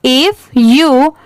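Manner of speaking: very slow, word-by-word reading; deliberate, spaced-out classroom read-aloud; slow model reading. Shown as a demonstration. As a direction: read aloud slowly for learners, pausing between phrases. Rereads the paragraph slowly for learners.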